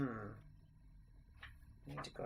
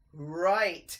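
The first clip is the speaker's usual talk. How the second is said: gang chorus; 10 dB louder than usual. A narrator's reading. Rats agreeing with their leader, loud chorus. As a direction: agree in unison. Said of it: "chorused the rats".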